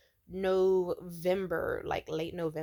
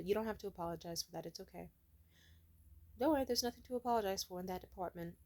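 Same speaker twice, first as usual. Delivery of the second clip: soft, subdued reply, dropping away; solemn; 6 dB quieter, faster than usual. Retold or imitated. Worker declining the man's apology without eye contact, solemn. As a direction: quietly wave it off, avoiding contact. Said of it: "I just very solemnly looked".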